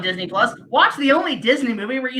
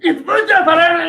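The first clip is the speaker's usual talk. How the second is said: laughing mimicry; 4 semitones higher, 4 dB louder than usual. Mocking garbled dub, laughing.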